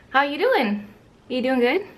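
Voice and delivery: pet talk. Real, not acted. Cooing to the dog.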